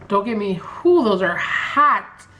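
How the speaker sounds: talking through a mouthful of spicy food; words round a hot, spicy bite; mouth full of hot food. Real, not acted. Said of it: "my mouth is on fire".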